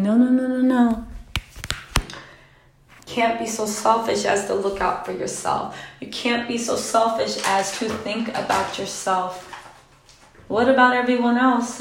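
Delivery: a hint of a mother lecturing her child; imitating mom. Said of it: "my mom specifically, saying".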